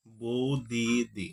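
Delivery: বৌদিদি said very slowly, each syllable; slow careful বৌদিদি; drawn-out example. Shown as a demonstration. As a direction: stretch out বৌদিদি for the class. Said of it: "উচ্চারণ কি".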